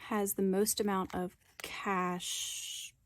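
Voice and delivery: breathless from sitting on the floor; out of breath, short airy phrases. Real, not acted. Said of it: "now it's hard to breathe".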